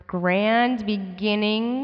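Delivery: announcer voice. Acted. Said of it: "announcer voice".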